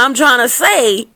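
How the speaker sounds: slightly high, hammed-up pleading; playful put-on protest; mock whining comeback. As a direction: lightly echo her whine back at her. Mock answer to the upset woman.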